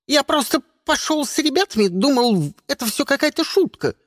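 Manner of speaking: high, frightened pleading; the egg pleading for its life. Acted. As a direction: beg in a thin panicked voice.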